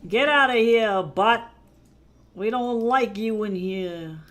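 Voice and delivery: loud, punchy yell to kick someone out, then slowing down; hammed-up bouncer shout, slowing at the end; shouting eviction. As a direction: bellow them out of the room. Voicing Kara throwing someone out.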